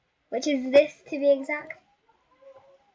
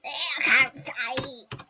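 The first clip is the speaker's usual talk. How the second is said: crying; much slower than usual. Real, not acted. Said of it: "I'm crying".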